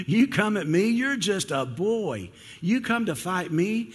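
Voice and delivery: high, drawn-out mocking taunt; mock a small challenger, stretching the words high. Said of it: "starts mocking him".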